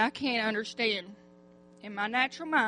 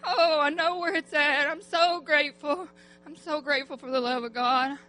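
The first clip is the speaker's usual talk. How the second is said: fervent tearful praise; 3 semitones higher, 4 dB louder than usual. Real, not acted. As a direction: build to an impassioned, teary cry. Testimony climaxing in tearful praise.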